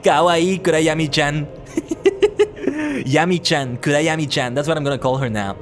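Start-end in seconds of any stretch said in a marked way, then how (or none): 0.0-4.5 excited anime fan. Real, not acted. Cooing over the cute pet.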